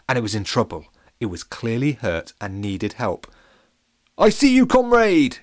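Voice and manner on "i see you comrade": loud high posh shout. Acted. Captain shouts to injured banana, loud and high. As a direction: call out across the garden. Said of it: "shouted the captain".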